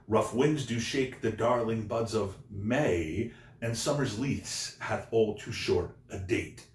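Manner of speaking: teacher reciting verse to show the rhymes; poem recitation. Shown as a demonstration. Rereads quatrain to show rhymes.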